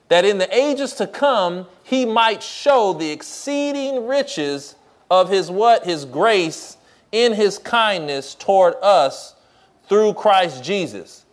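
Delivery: slow verse reading with pauses; slow scripture reading. Acted. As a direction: read it slowly, prompting the congregation. Verse reread with prompts.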